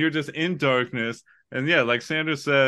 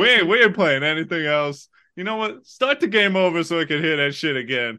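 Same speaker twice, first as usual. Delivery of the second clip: excited to brother; 5 semitones higher than usual. Retold or imitated. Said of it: "look at my brother and like".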